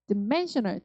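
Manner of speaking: "dimensional" with a weak "d'", stress on MEN; unstressed D. Shown as a demonstration. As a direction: reduce the start of "dimensional" to 드. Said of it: "D에 강세 없으니까". (dimensional을 드멘셔널로, D는 약하게)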